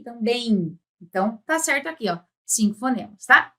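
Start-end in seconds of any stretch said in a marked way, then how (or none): 0.0-0.8 TAMBÉM ending beim, with a nasal I; I glide. Shown as a demonstration. Teacher pointing out an added sound, I glide. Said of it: "mas aparece um I".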